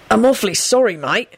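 mildly earnest apology. A narrator's reading. Sirius apologises to the grieving man, earnest. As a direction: apologise with a touch of sincerity. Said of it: "Sirius said earnestly".

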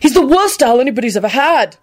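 high-pitched, irate complaint; heated, indignant yell; hot yell. A narrator's reading. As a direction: yell it in a temper. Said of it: "Neville yelled hotly".

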